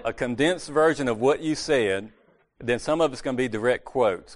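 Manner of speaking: laughing. Real, not acted. Laughing at the condescending slip in front of the church meeting. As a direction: laugh at your own slip as you say it again. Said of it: "I didn't wanna say condescending".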